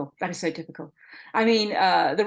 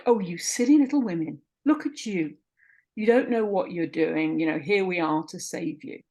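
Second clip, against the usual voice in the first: condescending doctors. Retold or imitated. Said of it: "dreadful abuse of power".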